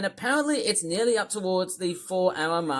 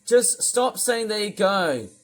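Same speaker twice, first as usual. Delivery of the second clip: angry; 4 semitones higher, 5 dB louder than usual. Real, not acted. Ranting at Otis.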